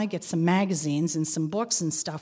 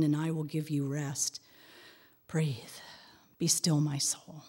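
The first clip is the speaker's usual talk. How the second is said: prayerful meditation. Acted.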